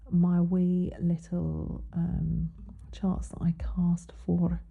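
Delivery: slow, whispered, badly faked Scottish accent; a breathy attempt at a Scottish lilt; a failed stab at a Scottish accent, whispered slowly. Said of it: "I do the worst Scottish accent".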